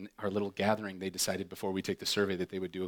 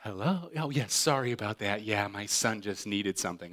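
sweet phone voice; 2 semitones lower than usual. Retold or imitated. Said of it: "she's back to the phone".

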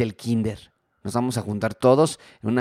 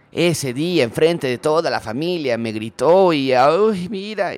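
louder, higher indignant grievance; indignant complaint; 6 semitones higher, 5 dB louder, slower than usual. Retold or imitated. Offended spouse recalling being yelled at before the family, indignant. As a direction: rant like a wounded spouse.

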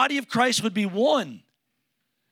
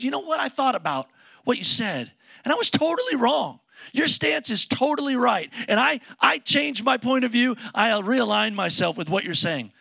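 a caller gushing that you were right, higher and louder; mock caller conceding; 5 semitones higher, 4 dB louder than usual. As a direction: mockingly play someone finally admitting they were wrong.

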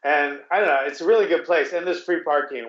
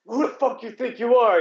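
imitating her indignant, higher-pitched challenge; mock attitude; 7 semitones higher than usual. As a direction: toss it out as a mock confrontation. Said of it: "with, like, an attitude".

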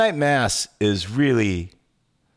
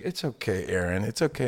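soothing; 6 dB quieter than usual. Retold or imitated. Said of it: "she's like".

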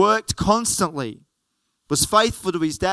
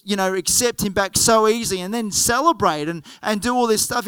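a little higher and faster, mildly indignant; hint of an upset son complaining to his father; indignant older son; 3 semitones higher than usual. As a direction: protest like a resentful son scolding his dad. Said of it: "He's angry at his dad".

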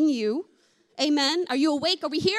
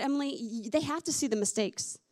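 gentle comforting Spirit; 3 semitones lower, 3 dB quieter than usual. Retold or imitated. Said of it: "He said".

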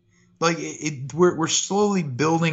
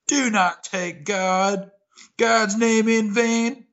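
slow, solemn, literal take; a measured sermon-like read; 7 semitones higher, much slower than usual. Shown as a demonstration. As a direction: deliver it straight and grave. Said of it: "I like the take".

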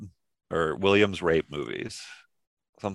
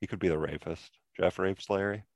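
muffled behind a hand; hand over mouth; 7 dB quieter than usual. Real, not acted. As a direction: talk through your hand. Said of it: "Don't talk with your hand over your mouth".

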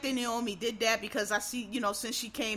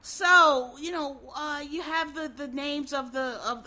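lightly mocked hesitant reporter, pitched up; imitated reporter; 4 semitones higher, 4 dB louder, slower than usual. Imitating a white reporter questioning the winner, hesitant. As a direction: stumble through a drawn-out question, a little higher. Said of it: "this reporter asked her a question".

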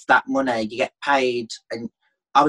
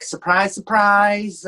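1 Cilla Black; 4 semitones higher, much slower than usual. Retold or imitated. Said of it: "Cilla Black".

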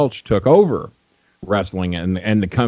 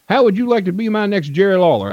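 much higher put-on old promoter voice; imitating Nick Gulas; 12 semitones higher than usual. Old promoter greeting a young fan, high imitated voice. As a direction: play the old wrestling boss greeting a stranger, pitched way up. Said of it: "That, that's kinda how he talked".

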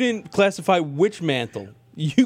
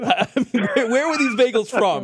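laughing; 5 semitones higher than usual. Real, not acted. Joking question about weed bagels.

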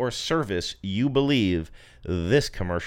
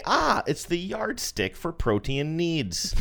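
mock announcer; 6 semitones higher, slower than usual. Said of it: "we should say".

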